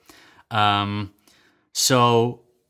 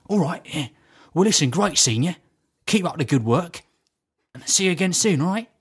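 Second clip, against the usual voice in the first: lightly imitated matey farewell; a hint of chummy impression; Terry Venables. Man saying goodbye to a supposed acquaintance, lightly imitated matey send-off. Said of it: "I'm walking with Terry Venables".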